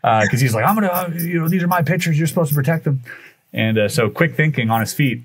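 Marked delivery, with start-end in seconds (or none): 0.7-3.0 high-pitched mock indignation without shouting; retold yelling. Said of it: "starts yelling at them".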